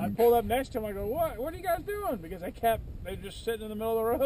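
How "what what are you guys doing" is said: retold incredulous question. Retold question to stopped riders.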